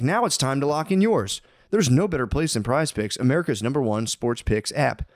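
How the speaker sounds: brisk sponsor read. Acted. Hosts reading the sponsor spot, upbeat ad read. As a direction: sell the app like a podcast ad.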